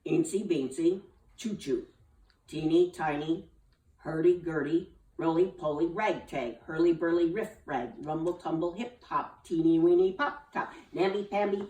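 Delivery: gather speed word by word. Acted. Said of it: "started slowly but picked up speed".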